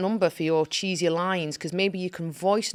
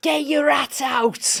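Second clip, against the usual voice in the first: put-on loud, high shout in Scouse accent; 9 semitones higher, 6 dB louder than usual. Recalling a man who once shouted at her in Liverpool, retelling a Scouser's shout. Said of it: "A Scouser once shouted to me".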